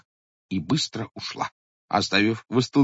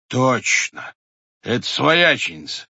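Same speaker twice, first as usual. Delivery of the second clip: surprised; 4 semitones higher, 5 dB louder, slower than usual. A narrator's reading. Head recognises sister-in-law.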